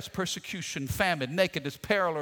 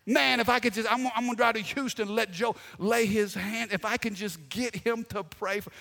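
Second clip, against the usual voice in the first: higher-pitched, mock-eager pleading; gushing, half-joking eagerness; eager fan plea; 4 semitones higher than usual. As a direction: act out someone desperate for a famous preacher's prayer. Voicing an eager would-be prayer seeker.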